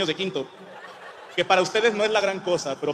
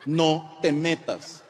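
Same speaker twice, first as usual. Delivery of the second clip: each word slow and weighted: "No te metas"; slow emphatic; much slower than usual. Retold or imitated. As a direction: drag out "No te metas" very slowly. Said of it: "Te voy a decir otra vez porque eres muy necio".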